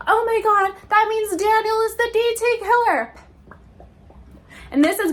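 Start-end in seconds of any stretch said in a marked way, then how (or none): 0.1-3.1 high, bright sudden realization; mock gasping discovery; imitating an overexcited Pip; excited gasp. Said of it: "And Pip is like".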